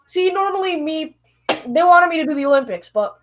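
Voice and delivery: ordinary delivery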